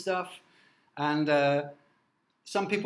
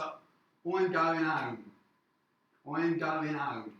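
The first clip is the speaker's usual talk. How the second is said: dropped-h London street accent, slowly; London street accent demo; much slower than usual. Shown as a demonstration. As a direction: say it like a Londoner, "I'm going home" with no h. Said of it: "they might say".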